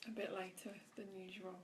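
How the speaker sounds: soft breathy whisper, barely voiced. Real, not acted. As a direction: hush your voice as if others sleep. Quiet start of live meditation.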